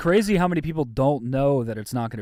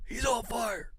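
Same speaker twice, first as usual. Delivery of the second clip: arcade announcer; 10 semitones higher, 8 dB quieter, slower than usual. Pretend.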